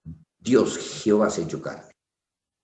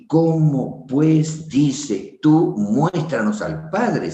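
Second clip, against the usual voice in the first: mild rebuke; 5 semitones higher, 3 dB louder, much slower than usual. Retold or imitated. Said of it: "le haces pasar vergüenza".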